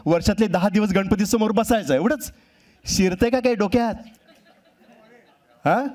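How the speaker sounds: a nagging mom's mock scolding; scolding mother. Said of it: "त्याची आई त्याला ओरडतेय". (मुलाला ओरडणारी आई, थोडा उंच आवाज)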